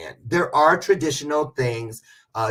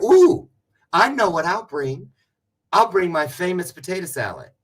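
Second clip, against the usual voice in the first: bright, higher mock-proud sister voice; mimicking sister; 6 semitones higher, 6 dB louder than usual. Mocking her sister offering her famous potato salad. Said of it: "And she's always said".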